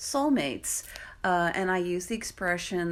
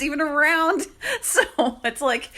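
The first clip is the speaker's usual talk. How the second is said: higher, louder, laughing through the words; amused laugh spilling into speech; 8 semitones higher, 6 dB louder than usual. Real, not acted. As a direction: let a real laugh break into the words. Laughs at scarce graduate programs.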